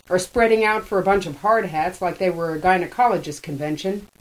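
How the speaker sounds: taunting. A narrator's reading. Hammy taunting Trix.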